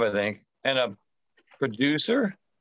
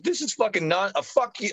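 high, sputtering mock outrage; retold angry yelling; 8 semitones higher than usual. Cutting off the casting caller in the retelling, high mock-furious protest. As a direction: act out losing it on the phone. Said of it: "I'm yelling in the fucking phone at her".

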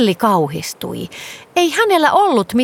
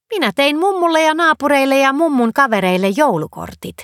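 higher, proud and pleased; proudly; 6 semitones higher than usual. A narrator's reading. Girl Nelli to her father, proud. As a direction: show off the cards, beaming. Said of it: "Nelli sanoi ylpeänä".

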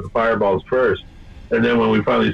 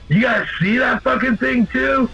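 high-pitched excited call at normal volume; retold yell; 9 semitones higher than usual. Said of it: "And I yell".

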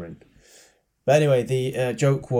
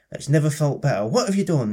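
mock amazement, rising high and louder; amazed patient; 5 semitones higher, 4 dB louder than usual. Joke's cured patient questions her doctor, high acted amazement. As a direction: marvel at the cure, voice climbing.

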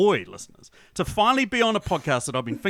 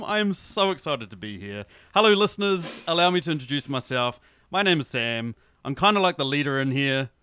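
lower, friendly rock monster voice; gentle rock creature; 4 semitones lower than usual. Acted.

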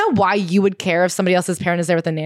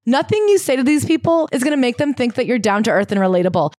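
normal talking voice

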